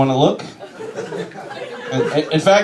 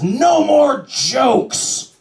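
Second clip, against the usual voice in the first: a lightly played father's high angry shout; 11 semitones higher, much slower than usual. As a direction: imitate a father snapping at his son in the car. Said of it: "he says".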